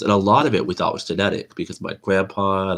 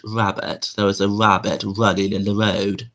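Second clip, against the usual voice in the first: lightly British-accented demonstration; careful, faintly British pronunciation; British-sounding; 2 semitones higher than usual. Shown as a demonstration. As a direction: recite it with a hint of British accent. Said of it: "I don't know why I sound British".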